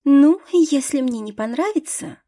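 put-on high, whiny rich girl; airy spoiled heiress complaining. Кассия капризно рассуждает. (капризно, избалованно)

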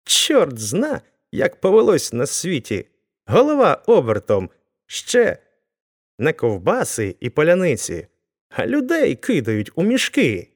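high-pitched, alarmed outburst; frightened exclamation. A narrator's reading. Weaver finds people thrown into sacks, alarmed exclamation. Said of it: "скрикнув злякано ткач".

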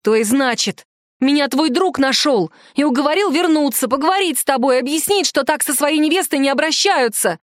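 plain reading voice

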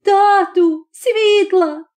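high, crying call for light; mother begging her father for light, crying; tearful cry. A narrator's reading. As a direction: plead for light through sobs. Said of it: "скрикнула".

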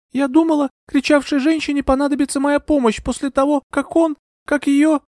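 put-on high young woman's voice, faltering; a dazed young lady explaining; young heroine. A narrator's reading. Euphemia explains herself to Bertram, high and faltering.

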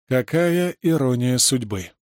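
usual speaking voice

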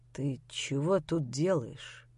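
a low, slow demand; low slow question. A narrator's reading. Grisha asks Lera why she came, low and slow.

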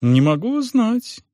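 flustered innkeeper. Acted. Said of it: "наигранности".

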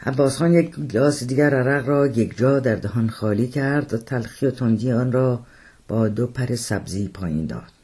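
usual speaking voice

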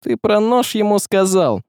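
threatening question. A narrator's reading. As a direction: press him with menace. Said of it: "спросил Василий с угрозой".

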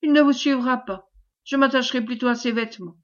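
feigned terror. Acted. Wife clings to husband against the commander, affected terror. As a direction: refuse for him, quickening as if frightened. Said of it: "en affectant une terreur de plus en plus croissante".

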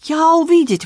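the Frenchman exclaims he saw it; exclaiming. Acted. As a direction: burst out with it, pitched high. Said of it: "воскликнул он".

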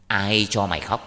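loud, stern challenge; glowering anger. Acted. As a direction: demand an answer like an angry village official. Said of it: "mặt hầm hầm".

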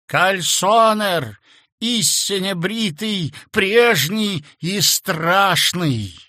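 high, slow, loud dread; horrified. A narrator's reading. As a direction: cry out the name in horror. Narrator's horror.

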